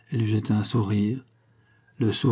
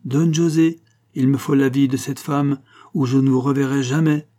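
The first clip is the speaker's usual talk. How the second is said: louder, higher verdict with no appeal; fatal judge; 4 semitones higher, 5 dB louder than usual. Acted. Banco condemns Don José like a judge. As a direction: pass sentence like a stern judge. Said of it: "l'attitude fatale d'un juge qui condamne sans appel".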